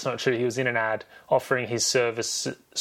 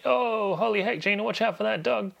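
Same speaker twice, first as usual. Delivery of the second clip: higher-pitched retold warning; mock alarm; 10 semitones higher than usual. Acting out a warning in retold film.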